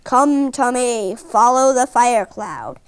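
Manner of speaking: slow, lightly voiced mystery voice; mysterious voice. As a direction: draw it out like a mysterious call. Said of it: "he hears a mysterious voice saying".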